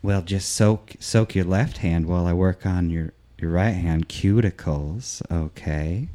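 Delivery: low, soft salon patter; hushed, low manicurist voice; unruffled manicurist. Acted. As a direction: talk softly and low while working on a client's nails.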